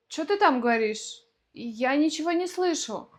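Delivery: quick, run-together colloquial Russian; fast casual speech. Shown as a demonstration. Example of everyday speech to someone unheard, fast and casual. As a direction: rattle it off with swallowed syllables. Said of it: "в быстрой речи мы скажем".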